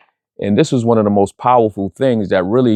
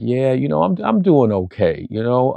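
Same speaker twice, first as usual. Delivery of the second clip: mild, polite reassurance; polite reply; 3 semitones higher than usual. Retold or imitated. Host telling a concerned kid he's okay, politely. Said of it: "politely said".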